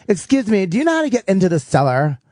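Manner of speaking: a hint of a snooty young woman asking; mock ditzy girl voice. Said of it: "an octave above the rest of us".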